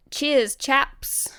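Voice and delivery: animated. Shown as a demonstration. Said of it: "say it in, like, a really animated way".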